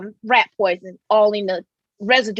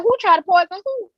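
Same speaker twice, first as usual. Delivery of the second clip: high, disbelieving question; shocked sister; 8 semitones higher than usual. Retold or imitated. Sister on the phone, shocked and pitched high. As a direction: sister can't believe what she hears. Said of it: "She said".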